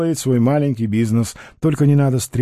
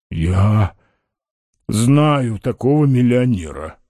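low, halting confession in a character voice; hesitant; 4 semitones lower, slower than usual. A narrator's reading. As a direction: pause uncertainly after the first word. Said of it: "Он неуверенно посмотрел на Остапа и промолвил". (неуверенно, с запинкой)

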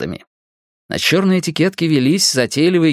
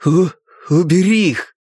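louder, sharp stammered command; sharp stutter; 5 semitones higher, 3 dB louder than usual. Acted. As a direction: force it out harshly through a stutter. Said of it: "Резкий тон".

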